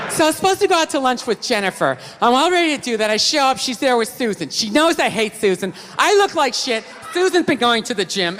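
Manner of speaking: fast chatty retelling of lunch drama; rambling gossip. Retold or imitated. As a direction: rattle it off like a gossip. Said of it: "they're telling you a story".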